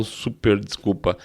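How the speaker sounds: normal talking voice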